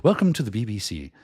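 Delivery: proper upper-class English announcer accent; posh BBC British accent; aristocratic British accent. Shown as a demonstration. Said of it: "like the more aristocracy".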